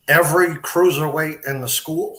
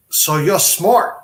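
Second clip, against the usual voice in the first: mock impressed; 4 semitones higher, 3 dB louder, slower than usual. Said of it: "he didn't say it like that".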